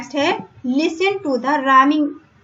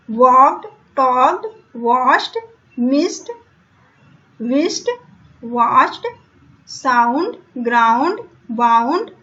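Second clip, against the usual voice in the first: word drill. Shown as a demonstration. Teacher drilling the word list for pupils to repeat. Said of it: "अब आप मेरे साथ आप बोलिए".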